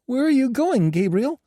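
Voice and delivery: high, shaky frightened cry; quivering voice. A narrator's reading. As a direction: call after him in fear. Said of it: "with a quivering voice".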